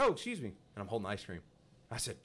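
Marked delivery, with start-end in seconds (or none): 0.0-0.5 bright, high, loud friendly apology; overly friendly hello to a stranger; chipper excuse me. Retold or imitated. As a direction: sound cheerfully surprised. Retelling Walmart encounter, own voice.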